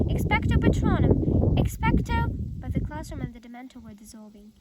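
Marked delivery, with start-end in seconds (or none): 0.1-2.3 shouted high and loud; yelled spell. A narrator's reading. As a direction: yell the spell with all his might. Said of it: "Harry yelled".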